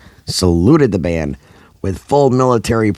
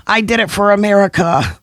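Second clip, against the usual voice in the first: triumphant scream. A narrator's reading. Dancer falling into pie, high proud scream. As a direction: scream it mid-fall with pride. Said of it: "She screamed".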